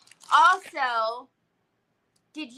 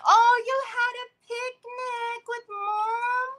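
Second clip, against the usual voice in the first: touched, excited high voice; delighted gushing; 8 semitones higher than usual. Real, not acted. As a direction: gush in a high, sweet squeal. Gushing over a viewer's picnic news.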